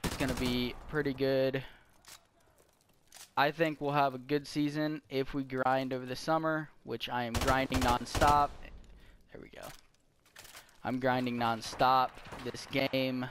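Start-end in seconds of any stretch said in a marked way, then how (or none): 3.4-13.3 flat robotic monotone. Real, not acted. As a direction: speak like a robot. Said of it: "Why am I talking like a robot?".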